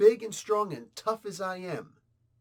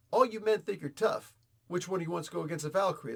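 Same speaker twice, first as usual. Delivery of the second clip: lightly voiced Valkyrie taunting the men; a hint of a brash warrior woman; Viking voice; faster than usual. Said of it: "my Viking impression right there".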